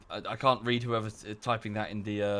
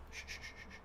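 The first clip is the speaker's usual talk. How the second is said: shushing; 16 dB quieter, faster than usual. Real, not acted. Hushing the squirming dog.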